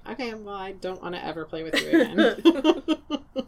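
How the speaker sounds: laughing mock sulk after losing at Monopoly. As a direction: grumble it through laughter. Retold reaction to losing Monopoly.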